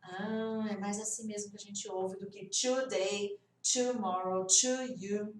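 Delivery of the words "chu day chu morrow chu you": "today", "tomorrow", "to you" each starting "chu"; Brazilian-accented CH in "today", "tomorrow", "to you"; accented CH version. Shown as a demonstration. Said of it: "por conta do nosso sotaque".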